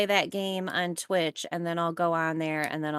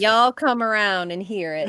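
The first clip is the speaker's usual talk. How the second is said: put-on Southern accent. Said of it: "I'll bust out the accent".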